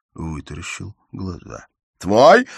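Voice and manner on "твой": a loud high shocked question; stunned cry. A narrator's reading. Father hears his daughter is married, shocked disbelief. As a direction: choke on the word in disbelief.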